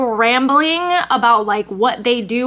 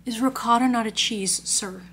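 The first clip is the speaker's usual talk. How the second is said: normal talking voice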